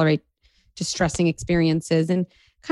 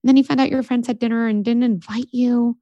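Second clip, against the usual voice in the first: higher, patient recap of her bad day; a gentle husband listing it back; 5 semitones higher than usual. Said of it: "my husband was like".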